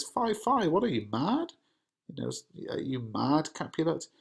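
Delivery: high, startled mother; mother shocked at her husband; Lady Capulet's alarm. Acted. Reads Lady Capulet's lines.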